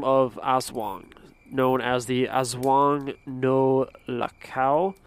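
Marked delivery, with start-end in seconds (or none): 1.5-5.0 Spanish accent. Shown as a demonstration. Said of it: "like, a Spanish accent on everything".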